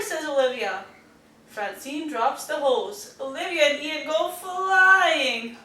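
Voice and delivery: put-on lively storybook reading to kids; reading to children. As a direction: read it like a bedtime picture book. Reading picture book aloud.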